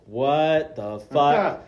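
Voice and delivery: shocked disbelief. Retold or imitated. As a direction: stretch it out in loud mock disbelief. Retelling her shocked reply.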